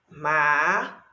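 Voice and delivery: macaco with long gaps, ma... ca... co; syllable by syllable. Shown as a demonstration. Teacher filling the three-syllable column, syllable by syllable. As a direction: dictate macaco one drawn-out syllable at a time. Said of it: "nas três sílabas".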